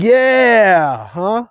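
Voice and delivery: high, slow drawn-out "Yeah, that's right"; California "huh". Shown as a demonstration. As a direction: stretch it lazily, add a "huh". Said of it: "It's like".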